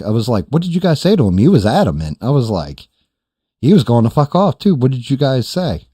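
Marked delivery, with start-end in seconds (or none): 0.5-1.4 high, incredulous questioning; acted-out bafflement; retold amazement. Retelling his amazed questioning of friends. 3.6-5.9 high, louder incredulous pleading; pitched up in disbelief; retold amazement. Retelling his amazed questioning of friends.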